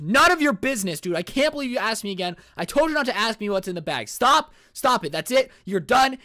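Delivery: high, loud retold yelling; acted angry outburst. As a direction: explode like a fed-up hitchhiker. Hitchhiker explodes when asked again.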